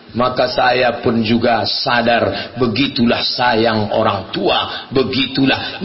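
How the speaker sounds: slow, low, heartfelt; tender reflection. Real, not acted. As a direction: let it sink in slowly and low. Tender conclusion about parents' love. (lirih merenung, pelan dan rendah)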